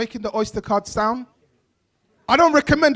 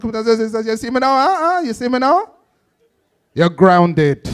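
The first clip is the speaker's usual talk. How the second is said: Jamaican dad; faster than usual. Retold or imitated. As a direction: ramble on like an angry Jamaican dad. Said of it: "his dad was from Jamaica".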